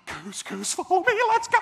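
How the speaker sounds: put-on thrilled kid. Store kid to a shopper, a high loud thrilled shout. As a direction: yell it like a kid on a mission.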